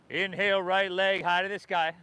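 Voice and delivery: breathless, puffing between cues; talking while winded mid-flow; out of breath. Real, not acted. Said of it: "Well, I'm out of breath".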